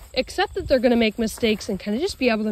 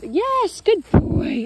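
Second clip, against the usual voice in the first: louder, rising praise for the dog; 10 semitones higher, 6 dB louder, much slower than usual. Real, not acted. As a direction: reward him with your voice.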